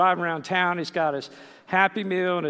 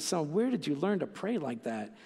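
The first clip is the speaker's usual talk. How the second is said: soft, amazed question from a dad, WHERE lightly stressed; a father touched by his son's prayer; 4 dB quieter than usual. Retold or imitated. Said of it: "He says".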